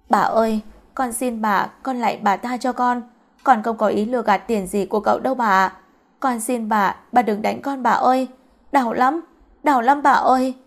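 acted begging for mercy; mildly distressed plea, lifting toward the end; tearful pleading. Beaten girl begs the mistress to stop, tearful pleading. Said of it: "vừa khóc vừa van xin".

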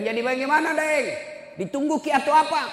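high, loud retold questioning; pressing question. Preacher retells pressing the son.

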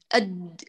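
«أد» cut off at once, no lengthening. Shown as a demonstration. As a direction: say «أد» and stop the sound dead. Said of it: "لا تطيلي يمتد الصوت،".

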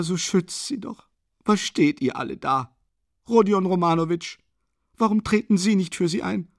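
a poor consumptive woman crying out for her daughter; desperate sobbing mother. A narrator's reading. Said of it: "in dieser heiser schreienden Stimme". (verzweifelte, hohe, flehende Frauenstimme)

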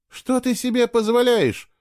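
lashing out. A narrator's reading. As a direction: pounce on him with outrage. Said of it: "накинулась она на него".

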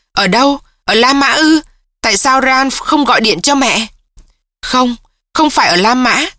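a daughter pouring out grief to her mother, voice lifted a touch; distraught daughter. Acted. Jessie, distraught daughter on the phone.

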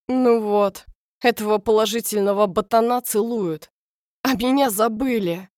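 loud, whiny, playfully hurt; mock jealous whine. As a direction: complain like a jealous child. Dan complains he's forgotten.

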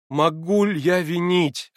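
slow, pained and bitter. A narrator's reading. Alyosha answering Natasha with bitter feeling. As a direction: let the bitterness show in the question. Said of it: "отвечал он с горьким чувством".

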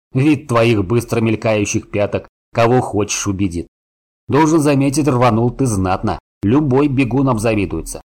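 loud, teasing dwarf; gruff gravelly dwarf voice. Acted. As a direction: rib him like a hearty dwarf. Гном хохотнул. (насмешливый громкий голос гнома)

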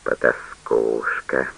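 father hissing an insult at his daughter; through gritted teeth. A narrator's reading. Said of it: "процедил пивовар сквозь зубы".

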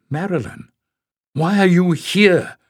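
cried out. A narrator's reading. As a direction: call out in alarm to stop her. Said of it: "cried Sian".

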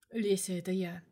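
hushed voice on the phone; whisper. Acted. Boss whispering to Lesya over the phone. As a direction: breathe it into the receiver.

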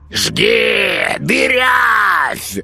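high shouted bird cheering; gleeful raven. Acted. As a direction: egg on the archer like a delighted crow. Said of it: "радостно захлопал над головами ворон".

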